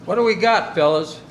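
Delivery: high, loud call to the men; officer calling out to the crew; eager shout. Acted. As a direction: shout it out, keen for action. Mush calls to the crew.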